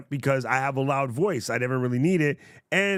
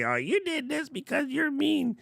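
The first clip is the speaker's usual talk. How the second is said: high, whiny mock voice; a hint of a taunting troll; mocking chatter. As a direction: imitate a snippy commenter. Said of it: "trying to say".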